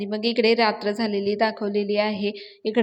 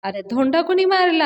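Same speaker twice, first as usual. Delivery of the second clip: angry; 6 semitones higher, 4 dB louder than usual. Acted. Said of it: "Datta चिडतो".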